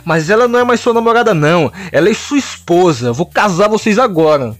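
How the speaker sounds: overjoyed. Acted. Wonder Woman thrilled about the couple, high and giddy. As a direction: squeal with delight. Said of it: "ficava toda feliz".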